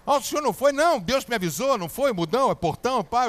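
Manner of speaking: acting both reporter and himself, excited; imagined TV interview. Imagined reporter and himself on TV, high and loud. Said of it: "Eu já me vi dando entrevista".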